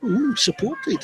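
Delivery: slow, drawn-out mock "Ooh"; mock impressed. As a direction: tease the fancy word. Mocking word choice.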